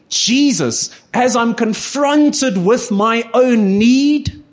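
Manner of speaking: earnest spoken prayer to Jesus, building through a list. Acted. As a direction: pray it out, word after word. Prays aloud in sermon.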